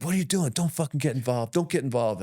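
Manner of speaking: high-pitched imitation of a scolding wife. Wife scolds husband for joining a bar fight, high and nagging. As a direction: pitch up and nag him to stay out. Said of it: "Cindy's like".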